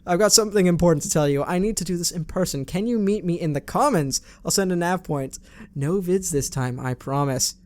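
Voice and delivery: a light, quick try at an Australian accent; mock Australian accent. Shown as a demonstration. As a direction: read it as Miranda with an Australian accent, not subtle. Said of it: "I can't really do a subtle Australian accent".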